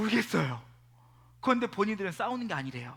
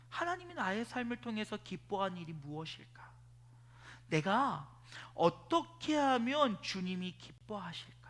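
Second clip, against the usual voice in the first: soft humble prayer; 6 dB quieter than usual. Retold or imitated. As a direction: turn inward and whisper-pray.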